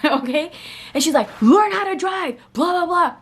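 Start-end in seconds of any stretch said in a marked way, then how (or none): 1.4-3.2 high, mock-angry scolding; retelling an angry stranger's scolding, mock angry; mocking angry girl. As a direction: imitate the driver cussing her out, half-hearted. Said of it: "She cussed me out".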